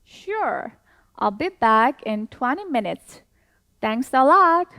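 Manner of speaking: slow, clear role reading of both parts; dialogue read-along. Shown as a demonstration. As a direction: read it slowly for students to follow. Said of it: "다시 한 번 더". (학생들과 같이 천천히 읽는 대화문)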